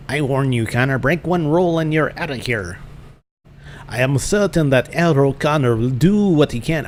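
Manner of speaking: put-on a wobbly, uncertain German accent; muddled German accent. Master warning the new pupil, in a muddled German accent. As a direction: warn sternly in a shaky attempt at German. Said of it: "no idea what that accent is".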